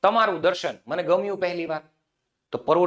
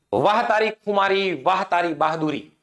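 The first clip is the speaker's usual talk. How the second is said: mock praise. Shown as a demonstration. Teacher voicing fake praise for a coward, ironic. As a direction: praise him with a knowing sneer. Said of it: "વખાણ".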